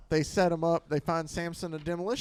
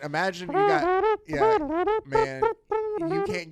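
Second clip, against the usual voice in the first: put-on high, louder old-time voice; jazzed-up big band listener; 1940s radio voice; 14 semitones higher, 4 dB louder than usual.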